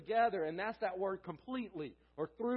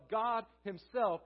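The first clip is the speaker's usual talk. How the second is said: "himself" set firmly against "yourself"; stress on HIMSELF; 3 semitones higher, 5 dB louder, slower than usual. Shown as a demonstration. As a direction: contrastive emphasis on "himself". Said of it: "the emphasis on the word himself".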